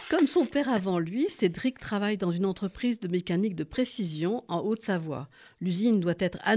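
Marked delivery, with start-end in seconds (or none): 0.1-3.6 louder, right into the mic; closer to the mic. Real, not acted. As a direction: lean in and read it out louder. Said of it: "Ah bah, devant le micro".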